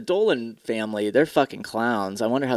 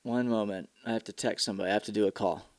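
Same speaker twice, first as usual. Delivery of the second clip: much softer, muttering to self; quiet aside; 5 semitones lower, 11 dB quieter, faster than usual. Real, not acted. Steps away from the stream to text someone, muttering quietly. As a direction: drop your voice and mutter to yourself.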